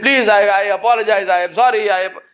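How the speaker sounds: high-pitched imitated pleading; acted begging. Sinking Qarun apologizes to Musa, acted desperate pleading. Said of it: "He begged and pleaded".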